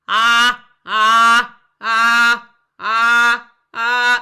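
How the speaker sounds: very loud ah squeezed from outside the voice box; passive pressing. Shown as a demonstration. Teacher demonstrating passive pressing. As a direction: squeeze the outer throat muscles on ah. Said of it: "Here's a sample".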